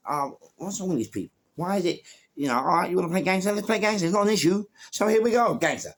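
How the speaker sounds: retold fury; mock angry rant. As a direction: sneer a challenge at them. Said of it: "I'm like".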